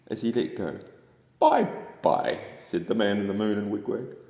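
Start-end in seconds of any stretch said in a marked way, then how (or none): 1.4-2.4 higher, louder bright farewell; sing-song farewell; cheerful goodbye. A narrator's reading. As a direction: call bye-bye as they let go. Waving goodbye to Little Duck.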